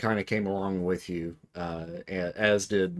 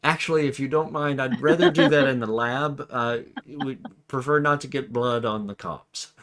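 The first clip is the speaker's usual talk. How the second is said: higher-pitched, politely objecting character voice; a mild, hesitant objection in a raised voice; lightly voiced polite scientist; 5 semitones higher, 3 dB louder than usual. Game master as Hank objecting to blood, mildly fussy.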